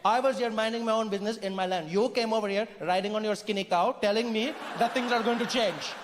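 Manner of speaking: lightly voiced Indian local, unimpressed; Indian character. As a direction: reason with the intruder in an Indian accent. Indian character replies to colonizer.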